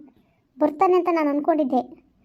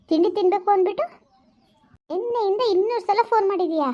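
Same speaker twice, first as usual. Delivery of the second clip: angry scolding; 4 semitones higher than usual. Acted. Girlfriend scolding cheating lover.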